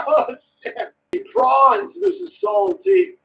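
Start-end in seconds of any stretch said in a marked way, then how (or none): 1.3-3.1 high squealed greeting with a slow end; squeaky shout-out. Acted. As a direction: squeal the names like a happy fan.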